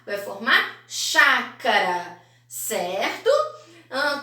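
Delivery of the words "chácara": "chácara" drawn out slowly in its syllables. Shown as a demonstration. Teacher showing pupils how syllables form a word, "chácara" slowly sounded out. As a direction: slowly build "chácara" from chá, ca and ra. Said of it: "Eu vou completar com K e com Rá".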